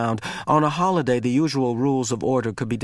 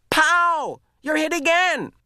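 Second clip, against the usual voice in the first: playful yell; slower than usual. A narrator's reading. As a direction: keep shooting him in play. Asher keeps firing in play.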